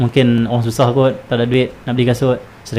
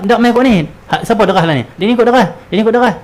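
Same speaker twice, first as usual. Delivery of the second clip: excited nosy bystander, much higher and louder; gossiping onlooker; 9 semitones higher, 3 dB louder, faster than usual. Retold or imitated. Preacher voices a nosy bystander gossiping over a crash scene. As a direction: chatter eagerly about the crash. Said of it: "Kawan dia kata".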